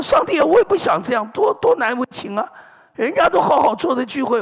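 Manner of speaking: high, fast, rushed complaint; embarrassed plea. Retold or imitated. Telling God he is embarrassed to keep falling: high, fast, flustered plea.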